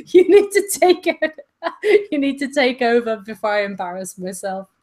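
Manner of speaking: giggling through the words; laughing. Real, not acted. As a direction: laugh it off, embarrassed. Laughing, embarrassed gushing.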